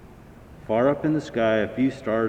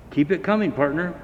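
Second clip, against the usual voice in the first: higher, louder call to the engine; shouting encouragement over the fire; 6 semitones higher, 4 dB louder, faster than usual. A narrator's reading. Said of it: "called Jonathan".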